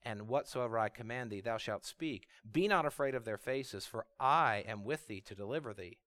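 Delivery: low, soft scripture reading; hushed, measured divine reply; voice of God. Acted. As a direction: answer with quiet, low authority. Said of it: "And God said to him".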